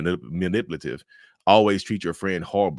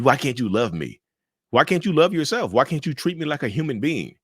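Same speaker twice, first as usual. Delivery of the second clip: imitating childish rage; 5 semitones higher than usual. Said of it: "That's childish rage right there".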